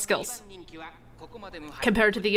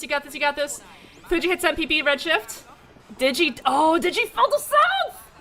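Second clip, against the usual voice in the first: psyching myself up; 7 semitones higher than usual. Real, not acted. Cheering during race finish.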